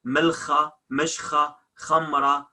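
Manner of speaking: Milcha, mishcha, khamra with rasped kh; spoken kh. Shown as a demonstration. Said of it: "it sounds he if the word is not classic".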